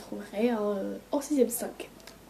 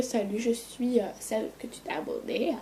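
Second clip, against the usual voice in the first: odd put-on voice; 5 dB quieter than usual. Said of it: "sais même pas pourquoi j'ai fait ça".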